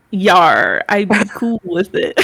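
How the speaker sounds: gruff pirate growl. Acted. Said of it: "in a pirate voice".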